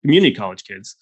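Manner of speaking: lightly imitated old Texan, scornful; a hint of cranky Texan; Texan accent. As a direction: explain it as a scoffing old Texan. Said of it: "accent every single time".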